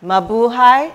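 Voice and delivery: rising, loud festive greeting; loud greeting call. Real, not acted.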